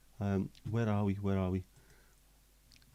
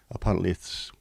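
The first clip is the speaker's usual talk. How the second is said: whisper. Real, not acted. Gossiping about a shady platform.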